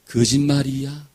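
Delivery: each syllable drawn out for the congregation to echo; slow call to repeat. Shown as a demonstration. Preacher leads the church in repeating, slow. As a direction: say it slowly so they can repeat it. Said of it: "한번 따라해보세요".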